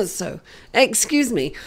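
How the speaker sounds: spluttering between coughs; coughing. Real, not acted. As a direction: cough then excuse me. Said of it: "coughing and spluttering".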